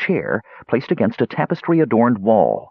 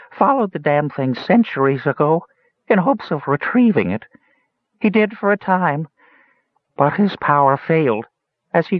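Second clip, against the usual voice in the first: high, odd creature voice, unhappy; burbling toad; 9 semitones higher than usual. A narrator's reading. Toad telling Palin of his grandfather's quest, unhappy burble. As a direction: keep it pitched high, like a storytelling toad. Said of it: "burbled a toad unhappily".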